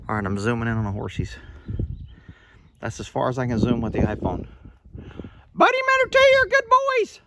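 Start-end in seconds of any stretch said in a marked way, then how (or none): 5.5-7.2 very high sing-song praise called to the horses. Real, not acted. Owner calling praise to his distant horses, very high baby talk.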